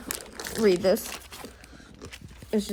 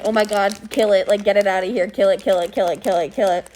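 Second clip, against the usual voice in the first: mock panic.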